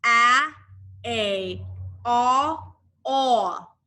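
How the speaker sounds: first A called out loud, the rest lighter; sound drill. Shown as a demonstration. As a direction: lead the class through each sound. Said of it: "Say it with me".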